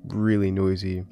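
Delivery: boxed-in closet sound; recorded inside a closet; muffled in a closet. Real, not acted. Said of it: "now recording in my closet because my environment is, like, really noisy".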